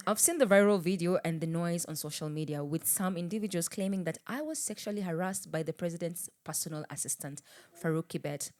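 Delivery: statement reading. Acted. Host reading a politician's tweet for co-host, measured. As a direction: read it out like a formal statement.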